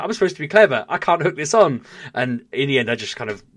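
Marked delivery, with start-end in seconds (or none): 0.0-1.8 high, loud self-mocking whine; a dog owner failing to hook the lead, high and loud; exasperated babble. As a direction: complain at yourself, pitched up and loud. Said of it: "I was like".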